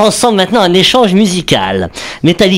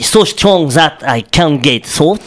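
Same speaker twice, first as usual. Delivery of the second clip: slow English with a French accent; careful French-accented English; slower than usual. Real, not acted. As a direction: read the English line slowly in a French accent. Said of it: "J'adore ton accent".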